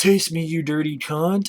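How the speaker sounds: imitated possessed-girl voice with a crude dirtbag manner. Retelling a horror movie scene, imitating a possessed girl talking like a dirtbag. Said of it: "she's possessed and she's talking like a dirtbag".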